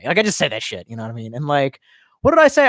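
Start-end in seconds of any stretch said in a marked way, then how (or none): 2.2-2.7 high-pitched. Real, not acted. Sudden high outburst.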